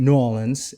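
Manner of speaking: "Nolans" slurred into one word, NAW-linz; local New Orleans pronunciation. Retold or imitated. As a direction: show how locals run "Nolans" together. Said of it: "it's just one".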